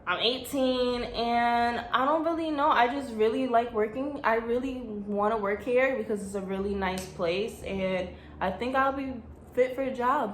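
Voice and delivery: timid applicant. Retold or imitated. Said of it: "everybody else be like".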